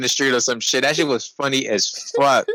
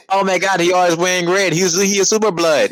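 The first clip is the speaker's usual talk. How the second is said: higher-pitched mock-alarmed exclamation; 6 semitones higher than usual. Friend joking all day about a man in red, mock alarm. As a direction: play up the alarm in a raised voice. Mimicking own running joke.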